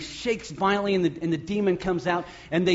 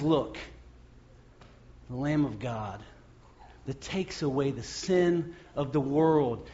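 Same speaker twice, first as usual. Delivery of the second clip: hushed awe; 4 semitones lower, 4 dB quieter than usual. Acted. John to the crowd, hushed and awed. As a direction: say it softly as if struck by wonder.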